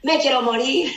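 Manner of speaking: laughs through a whiny Jonah line; mock despair, half-laughed; laughing mock despair. Preacher laughing at Jonah's sulk, mock despair. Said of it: "Jonás de nuevo".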